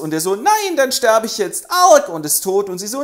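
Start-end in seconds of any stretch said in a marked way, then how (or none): 0.4-2.1 high, loud hammed-up dying cry; dramatic death. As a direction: ham up a kid's death. Son dies dramatically.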